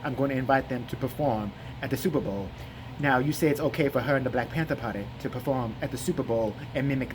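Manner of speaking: low, deadpan drowsy voice; slurred, disinterested interviewer drone; Jesse Lee Peterson. Retold or imitated. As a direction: propose it with sleepy seriousness. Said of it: "He goes".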